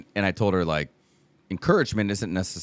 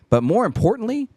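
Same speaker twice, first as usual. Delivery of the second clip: choked up; 10 semitones higher, 3 dB louder than usual. Real, not acted. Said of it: "I remember crying on the phone".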